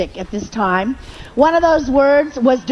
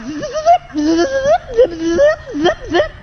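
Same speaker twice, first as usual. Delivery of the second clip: ecstatic spirit zips; 10 semitones higher, slower than usual. Retold or imitated. Spirit goes ballistic, speaker exclaiming.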